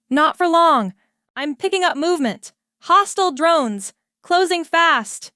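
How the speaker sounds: urgent alarm. A narrator's reading. Officer warning the crew of hostile drones, urgent and high. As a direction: sound the alarm as drones close.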